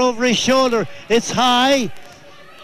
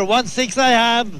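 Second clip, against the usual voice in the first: auctioneer. Pretend. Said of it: "I'm like an auctioneer".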